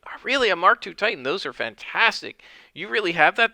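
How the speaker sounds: thrilled. Acted. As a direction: gush with excitement over the suit. Harrow thrilled by Mark two Titan.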